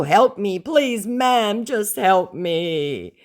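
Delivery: high, loud whiny plea; begging scammer. Retold or imitated. Scammer begging her, high and whiny. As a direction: beg pitifully.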